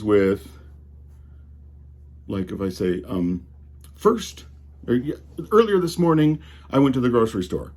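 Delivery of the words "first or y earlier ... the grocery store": measured dictation, saying comma aloud; dictating to voice-to-text, every word spelled out; careful dictation voice. Shown as a demonstration. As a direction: spell out the punctuation like talking to the phone. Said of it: "is how I would say this".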